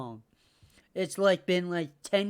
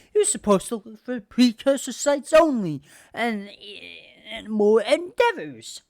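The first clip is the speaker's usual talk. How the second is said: mock indignant outrage; 5 dB louder than usual. Father denying blame to Connor, mock outrage. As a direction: play the father, huffy and offended.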